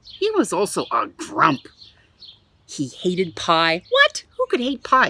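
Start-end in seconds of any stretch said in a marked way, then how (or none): 3.9-5.1 high, loud disbelief; playful outrage to young listeners; mock astonishment. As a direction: gasp in pretend shock for the kids. Mock outrage at hating pie.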